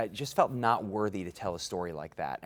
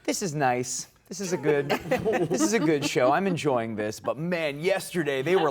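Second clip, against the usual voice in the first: excited; 7 semitones higher, 7 dB louder than usual. Retold or imitated. Polite audience versus rowdy yesterday.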